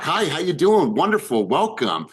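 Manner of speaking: upbeat, assured welcome, starting high and settling; confident greeting. Shown as a demonstration. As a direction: greet them with shoulders back and full certainty. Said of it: "you know, shoulders back".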